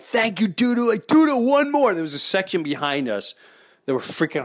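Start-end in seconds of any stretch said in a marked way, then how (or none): 0.0-1.9 put-on child voice.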